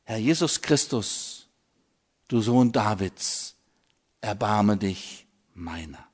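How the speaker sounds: soft, falling prayer, sinking at "erbarme dich meiner"; quiet heart prayer. Shown as a demonstration. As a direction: pray it inwardly, gently letting the voice drop. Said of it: "bete das Herzensgebet".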